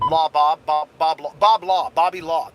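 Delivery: delighted riff on a nickname; playful nickname call. Real, not acted. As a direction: toss the nickname around happily. Playing with a nickname.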